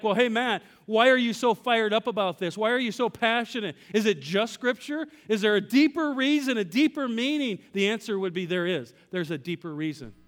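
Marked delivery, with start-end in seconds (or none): 0.0-7.6 curious listener. Retold or imitated. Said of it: "Some of you might be like".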